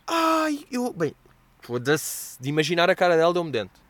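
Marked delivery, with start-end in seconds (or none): 0.1-1.1 little giggle. Retold or imitated. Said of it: "Com um risinho de".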